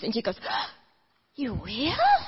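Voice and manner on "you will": surprised gasp. Retold or imitated. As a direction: gasp then a higher hopeful question. Mother's surprised delight.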